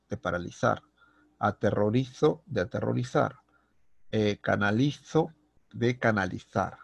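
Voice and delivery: the z in "analizo", "paralizo", "aterrorizo" and "canalizo" overdone as a long Castilian th; teacher drilling a stretched, lisped z in "analizar" and "canalizar"; exaggerated z. Shown as a demonstration. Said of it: "he exagerado la pronunciación de la letra Z". (z muy marcada, casi ceceo, en "analizo" y "paralizo")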